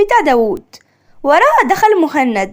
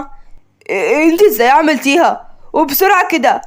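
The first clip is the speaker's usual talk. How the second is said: shocked; 2 semitones lower than usual. Acted. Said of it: "مهند بصدمة".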